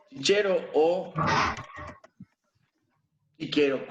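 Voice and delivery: Chichero with a CH, then chiquero with a K; the CH and K versions; two readings of Cicero. Shown as a demonstration. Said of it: "cualquiera pronunciación es correcta".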